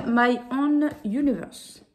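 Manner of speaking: English title in a French-accented attempt at English; super accent anglais. Shown as a demonstration. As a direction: show off your best English accent, as a French speaker. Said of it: "avec mon super accent anglais". (accent anglais appliqué, à la française)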